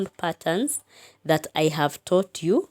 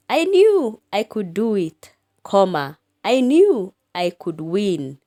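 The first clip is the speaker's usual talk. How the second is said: proud, lifted and louder; triumphant recitation; 5 dB louder than usual. Shown as a demonstration. Teacher voicing the engine's triumphant words, louder. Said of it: "opening speech marks".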